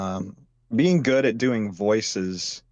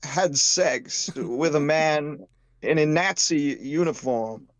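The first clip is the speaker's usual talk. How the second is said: Christopher Walken; 4 semitones higher than usual. Pretend. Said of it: "as Christopher Walken".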